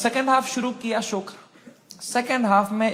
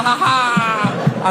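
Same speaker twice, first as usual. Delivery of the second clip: slow, hollow put-on ha ha; fake laugh; much slower than usual. Depressed man faking cheer, slow hollow laugh. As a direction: laugh for show while dying inside.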